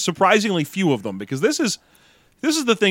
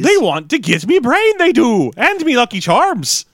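put-on high old lady voice drifting into Irish; hammy British granny sliding into leprechaun; bad British accent; 9 semitones higher, 4 dB louder, slower than usual. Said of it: "how bad my British accent was".

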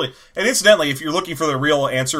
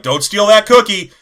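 scolding mother; 5 semitones higher, 6 dB louder than usual. Retold or imitated. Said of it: "she's like".

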